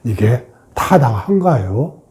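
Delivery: slow, soft, respectful question to oneself; softly, slowly asking 이게 타당한가요 with a polite rise. Shown as a demonstration. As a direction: ask gently, as if to an honoured citizen. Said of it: "정중하게 묻는 거예요".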